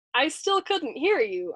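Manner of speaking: high, slow call; puzzled calling back. A narrator's reading. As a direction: call slowly, innocently not hearing. Navigator calls back, not hearing.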